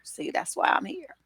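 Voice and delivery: breathy whispered aside to the viewers. Real, not acted. Whispering an aside to her viewers, softly. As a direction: drop to a whisper, just between us.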